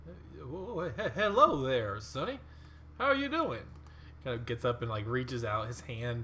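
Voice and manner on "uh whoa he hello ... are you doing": a hint of a cheery old mummy, climbing much higher; friendly mummy. Game master voicing the mummy greeting Beetle, cheery. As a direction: warm startled greeting, pitch rising to a high finish.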